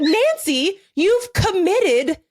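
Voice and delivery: high, exasperated mock scolding; lightly voiced nagging at Nancy over rugs. Scolding the painter Nancy about the rug, a mild mock scold. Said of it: "It's like".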